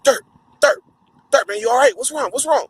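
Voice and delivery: high, worried calling; concerned homies. Retold or imitated. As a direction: ask him what's wrong, worried. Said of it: "they looking at me like".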